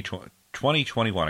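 "twenty twenty-one" drawn out slowly. Real, not acted. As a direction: take "twenty twenty-one" slow and careful. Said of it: "I gotta say that slowly now".

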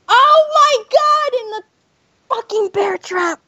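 high, slow outraged cry; frustrated yell. Real, not acted. Caught in game trap.

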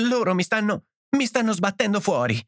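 high, halting, plaintive voice; whimpering. A narrator's reading. Edith collapsing on her husband, whimpering. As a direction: whine it, faltering and starting over. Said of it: "piagnucolò la moglie".

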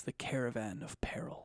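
hushed, secretive title drop; whispered title. Shown as a demonstration.

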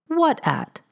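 sharp demand. A narrator's reading. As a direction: bark the question at the maid, high and quick. Landlady sharply questions the maid.

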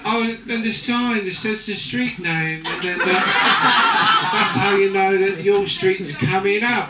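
slow, laughing mock wonder; hammed-up amazed Englishwoman; awed English tourist. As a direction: marvel at a bus sign like a child. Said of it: "then she was like".

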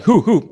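imitating hoo. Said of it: "Their sounds like".

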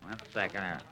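nose clipped shut; talking through a pinched nose; pinching nose. Real, not acted. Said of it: "I want to Allenize my nose here".

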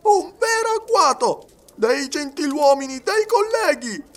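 very high, loud, drawn-out outcry; heated, tipsy indignation. A narrator's reading. Servant warming with brandy denounces the gentlemen, heated. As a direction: denounce it, stretching each phrase. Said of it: "che s'accalorava sotto l'influenza del brandy".

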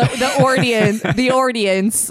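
put-on audience as "ordience" in New York accent; Jewish New York accent. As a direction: imitate New Yorkers putting an r in audience. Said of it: "hybrid Jewish New Yorkie accents".

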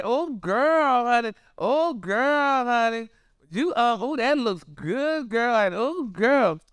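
high, drawn-out mock oohing; imitated admiring gushing. People praising her Easter meal, imitated gushing. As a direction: coo approval with stretched, swooping exclamations.

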